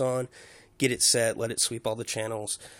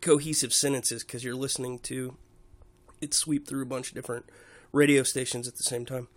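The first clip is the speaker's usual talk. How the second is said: talking with a dry mouth; dry-mouthed, sticky speech; 4 dB louder than usual. Real, not acted. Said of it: "kinda dry mouth today".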